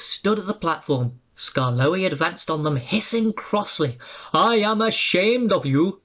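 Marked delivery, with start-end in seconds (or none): 4.3-6.0 higher, firm scold; a stern old engine's rebuke. A narrator's reading. Skarloey scolding the coaches, stern. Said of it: "he scolded".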